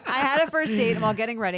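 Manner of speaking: laughing through the words. Real, not acted. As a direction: read it while cracking up. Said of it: "It does".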